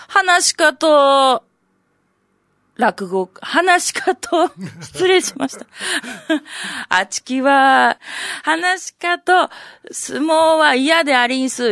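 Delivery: a hint of a coy high courtesan; courtesan's refusal. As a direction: drawl it like a coy oiran. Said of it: "千早の言うにはな".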